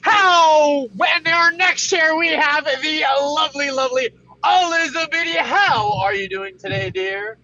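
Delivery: loud, fast morning show announcer; radio host. Acted. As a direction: hype up the show like a DJ. Introducing co-hosts on show.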